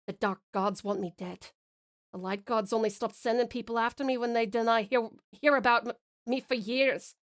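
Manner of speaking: put-on stumbling, imperfect Scottish accent; amateur Scottish accent. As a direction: explain it in a butchered Scottish accent. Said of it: "butchered it with my terrible accent".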